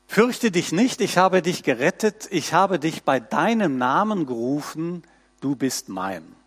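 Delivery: measured, solemn reading of the prophet's words; scripture reading. Acted. Preacher reading Isaiah to his congregation, solemn and measured. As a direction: lift the text off the page for the congregation.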